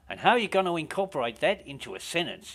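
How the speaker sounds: eager Australian DJ pressing on; Australian accent. Retold or imitated. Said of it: "my Australian accent's shit".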